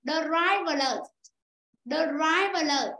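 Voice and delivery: "river" in the river alert stressed on its opening syllable; stress on first syllable. Shown as a demonstration. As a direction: hit the start of "river", let "alert" fall away. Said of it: "âm một". (the river alert nhấn âm một ở "river")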